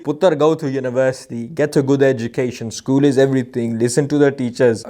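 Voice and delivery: a light South Asian accent, voicing a parent; parent's Desi accent. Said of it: "why I'm speaking in that accent".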